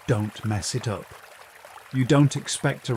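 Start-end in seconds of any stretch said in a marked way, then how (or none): 0.1-1.0 lower, softer narrated near-whisper; hushed aside. A narrator's reading. Narrator voicing your whisper to the tide pool bubble, hushed. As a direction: say it low and soft, as if whispering. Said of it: "You lean down and whisper".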